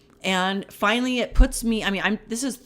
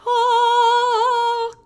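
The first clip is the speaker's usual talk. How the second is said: surprised; 14 semitones higher, 5 dB louder than usual. Retold or imitated. Sudden discovery of payphone.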